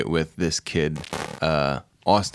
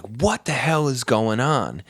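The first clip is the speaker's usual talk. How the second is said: slow, higher-pitched retold bewilderment; confused; 5 semitones higher, slower than usual. Man opening his door to strangers, bewildered. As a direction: imitate a baffled man, stretching the question. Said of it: "He's so confused".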